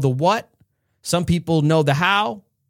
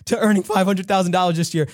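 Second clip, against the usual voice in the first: breathless excitement; 4 semitones higher, faster than usual. Acted. Kim gushing to her parents.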